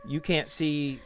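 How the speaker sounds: usual speaking voice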